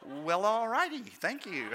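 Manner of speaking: slow, laughing well all righty; laughing, a bit taken aback; amused reply. Retold or imitated. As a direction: chuckle through a surprised thanks. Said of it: "It's just like".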